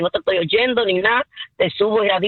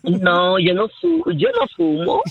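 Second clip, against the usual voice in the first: real raspy smoker-like voice; hoarse denial, rough from the flu; ashtray voice; slower than usual. Real, not acted. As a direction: protest through a raspy, croaky voice. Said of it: "Con esa voz de cenicero".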